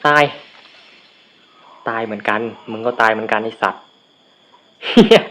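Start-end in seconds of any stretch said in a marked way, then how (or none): 4.9-5.2 high, loud swear at sudden death; shocked curse. Real, not acted. Killed suddenly in the game, shouting a curse. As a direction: blurt it out in shock.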